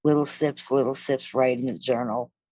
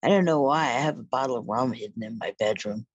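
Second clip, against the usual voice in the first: subdued, broken. Retold or imitated. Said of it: "very, very subdued and very broken".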